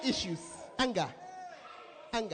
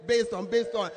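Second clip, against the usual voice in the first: mock shouting crowd; 6 dB louder than usual. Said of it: "as they are all standing there shouting".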